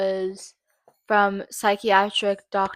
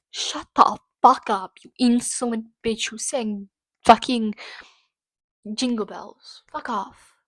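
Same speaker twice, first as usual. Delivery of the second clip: angry tirade. Real, not acted. Telling off the doctor.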